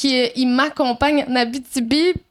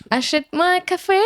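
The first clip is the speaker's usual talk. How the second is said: French in a put-on English accent, pitched higher; 5 semitones higher than usual. Podcaster plugging an English-language donation page, mock English accent. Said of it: "avec un accent".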